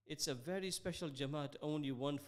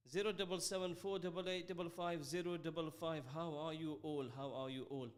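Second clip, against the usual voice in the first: out of breath. Real, not acted. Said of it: "I'm still catching my breath".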